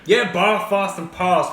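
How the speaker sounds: bar, fast and past with long posh ah; posh vowels. Shown as a demonstration. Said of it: "I talk in a moderately posh accent".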